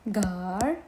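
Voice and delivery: "Garçon" split as gar, pause, son; teacher's broken-down "Garçon"; syllable by syllable. Shown as a demonstration. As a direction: sound out "Garçon" slowly in two parts. Teacher breaks word into syllables.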